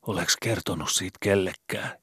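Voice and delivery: put-on a scared boy asking in the dark; worried boy Skobe. A narrator's reading. Skobe voiced higher. (huolestunut poika)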